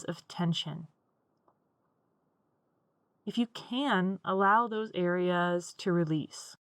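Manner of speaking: unhurried meditation guide with long pauses; guided meditation. Acted. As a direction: guide them gently into stillness, leaving room to breathe.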